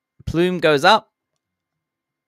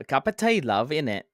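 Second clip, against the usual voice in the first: a jokey hint of a Cockney British accent; mock British accent. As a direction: toss off a playful British accent. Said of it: "just a Brit slip".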